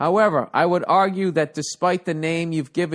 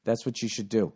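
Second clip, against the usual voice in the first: inner voice advice; 4 semitones lower, 4 dB quieter than usual. Retold or imitated. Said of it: "I should go".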